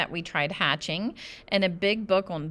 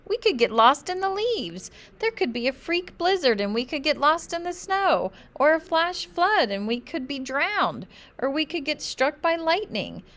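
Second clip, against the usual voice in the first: high, louder, spiralling worry; panicky rising alarm; 9 semitones higher, 4 dB louder than usual. A narrator's reading. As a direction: talk yourself into a panic, higher and higher. Child panics about camping dangers.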